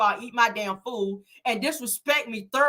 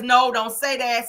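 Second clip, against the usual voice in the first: slower, louder retold objection; mock irritated protest, drawn out; mild building irritation; 3 semitones higher, 5 dB louder, slower than usual. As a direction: protest with a touch of rising temper. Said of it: "he about to snap on her ass".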